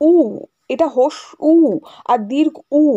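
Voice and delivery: উ held long as "uu"; drawn-out vowel. Shown as a demonstration. Teacher demonstrates to students the drawn-out pronunciation of উ. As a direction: stretch each উ, set apart from the word before. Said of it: "আমাদের উচ্চারণটা উ এর টান হয়".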